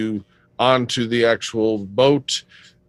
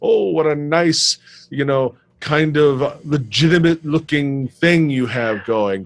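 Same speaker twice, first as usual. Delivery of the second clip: mock gushing; 3 semitones higher than usual. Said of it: "Someone who hasn't seen a friend ... might want to say".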